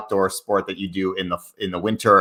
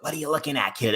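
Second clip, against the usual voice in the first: higher, softer Boston challenge; Boston accent; 6 semitones higher, 8 dB quieter, faster than usual. Retold or imitated. High schooler challenging classmate, Boston accent. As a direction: imitate a Boston kid picking a fight. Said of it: "people would be like".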